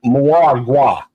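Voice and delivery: Mwagwa with an added M and no final N; mispronounced Patois. Real, not acted. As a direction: say Mwagwa as "mwah-gwah", unsure of the word. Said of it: "I'm probably saying it wrong".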